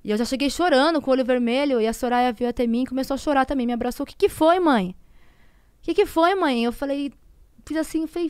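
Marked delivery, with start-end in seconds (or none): 4.0-6.6 high, louder imitation of a worried child; retold anxious question, pitched up; alarmed asking. Daughter to crying mother on her arrival, alarmed asking.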